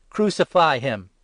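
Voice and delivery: loud, slow, falling shout of crucify; crowd's shout. Acted. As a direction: bellow it as a furious mob. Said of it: "Again they shouted".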